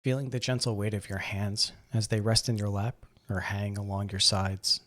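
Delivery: calm, measured meditation guide, long pauses between phrases; guided meditation. Acted. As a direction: gently guide them into breathing and relaxing. Leads a seated breathing meditation.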